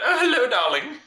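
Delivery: high, loud, flamboyant greeting; over-the-top drag queen. Retold or imitated. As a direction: gush it like a diva. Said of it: "over the top and really effeminate".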